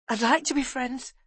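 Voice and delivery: put-on high, eager boyish voice; grinning boy. A narrator's reading. Boy accepts offer of friendship, grinning. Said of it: "he said, grinning".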